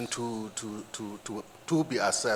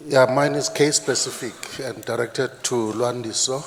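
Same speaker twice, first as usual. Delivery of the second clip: louder, projected restart; speaking up; 7 dB louder than usual. Real, not acted. Audience member repeats question after moderator asks for more volume, speaking up. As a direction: say it louder so the room can hear. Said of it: "Can you speak a bit louder".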